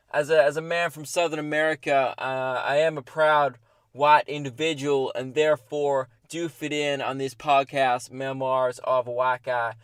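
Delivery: put-on patchy South American accent, lightly done. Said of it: "my accent is inconsistent".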